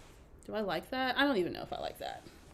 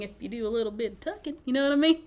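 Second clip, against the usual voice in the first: playful Southern twang, higher; put-on Southern accent; 3 semitones higher, 5 dB louder, faster than usual. Shown as a demonstration. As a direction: lay on a Southern accent for fun. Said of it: "If you add an accent to it".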